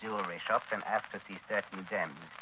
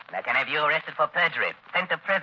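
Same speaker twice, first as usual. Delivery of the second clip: much higher and louder threat; threatening; 7 semitones higher, 6 dB louder than usual. Acted. Taggart threatens Ruth with prison, loud and high. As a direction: lean on her hard.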